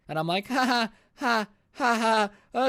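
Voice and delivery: high, spaced-out ha-has; nervous fake laugh. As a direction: act out an uneasy, forced laugh. Nervous reply to a veiled threat.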